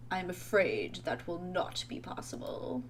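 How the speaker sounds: soft, regretful British refusal; British accent. Acted. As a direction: break bad news softly in a British accent. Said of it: "He's just gonna be British".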